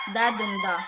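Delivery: "da dum da" with stress on DUM; amphibrach stress pattern. Shown as a demonstration. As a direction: beat out "da dum da", light, strong, light. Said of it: "combination of unstressed, stressed, and unstressed".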